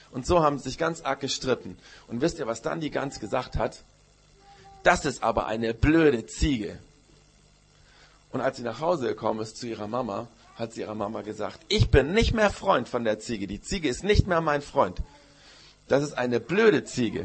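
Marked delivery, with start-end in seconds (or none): 4.8-6.8 put-on slow, louder huffy child; sulky insult. Goose grumbling about the goat after the fight, sulky. 11.7-17.2 louder, huffy, slowing at the end; indignant child. Acted. Goose telling her mama she's done with the goat, indignant.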